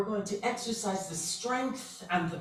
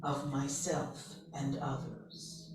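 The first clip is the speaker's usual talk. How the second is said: guided meditation; slower than usual. Acted. Leader to a group with eyes closed, meditative affirmation.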